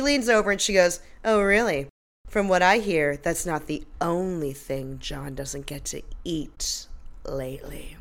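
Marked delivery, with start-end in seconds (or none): 1.2-6.9 slow, trailing down soft and low; insinuating innuendo. Retold or imitated. Podcaster imitating Monique's dig at John, slow suggestive murmur. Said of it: "she says it like that". 7.2-8.0 insinuating innuendo. Retold or imitated. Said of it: "she says it like that".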